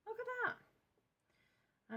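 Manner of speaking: high, slow, drawn-out marvelling; awed. Real, not acted. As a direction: linger over it in delight. Admiring the paint swatch.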